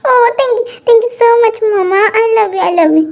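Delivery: high, slow, gushing thank you; excited thanks. Acted. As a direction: squeal your thanks to mama. Daughter thanks mom after forgiveness. (ऊँची, खुशी से भरी धन्यवाद)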